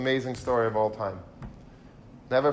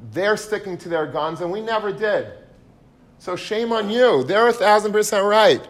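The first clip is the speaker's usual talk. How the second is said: rising, much higher and louder rebuke; scolding wife; 8 semitones higher, 6 dB louder than usual. Retold or imitated. Wife scolding her husband for refusing the money, heated rebuke. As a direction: builds to a high, loud scolding peak.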